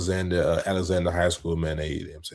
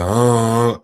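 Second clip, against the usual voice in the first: loud, raised "uh" mimicking a friend's off voice; imitated altered voice; 5 semitones higher, 8 dB louder than usual. Cohost teasing his friend about his changed voice, imitated altered voice. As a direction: push out a teasing imitation of an underwater-sounding voice. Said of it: "that side of your voice".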